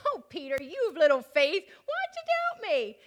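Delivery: Jesus fondly chiding Peter, voice climbing; tender Jesus. Acted. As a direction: tease him gently, voice lifting in disbelief. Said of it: "how I think Jesus probably said it".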